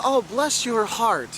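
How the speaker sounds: syrupy niceness covering an insult; mock Southern sweetness. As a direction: imitate a politely insulting Southerner. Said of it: "They will be as nice to you".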